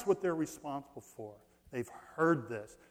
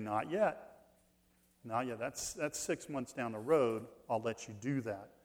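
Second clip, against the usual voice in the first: soft, low, unhurried reply; God saying not yet; 4 semitones lower, 7 dB quieter than usual. Retold or imitated. Preacher voicing God's calm delay to the crowd, softly. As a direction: quietly put them off. God answering calmly in retelling.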